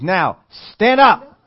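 loud, high, very slow order; loud command. Retold or imitated. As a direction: bellow it, drawing out each word. Ordering the healed man up.

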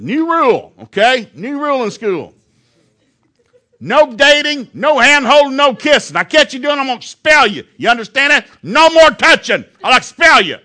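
red-faced principal shouting a new rule; angry shouting. Retold or imitated. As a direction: lay down the law, yelling at the whole school. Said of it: "I got mad".

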